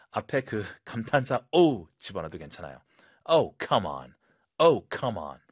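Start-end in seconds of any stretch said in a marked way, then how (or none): 3.2-5.4 louder, exasperated "Oh, come on" with a falling end; annoyed demo read; frustrated. Shown as a demonstration. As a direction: groan it out, fed up. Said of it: "답답하고 짜증날 때".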